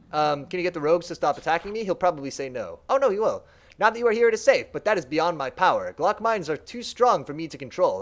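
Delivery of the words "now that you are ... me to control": servant mind. Acted.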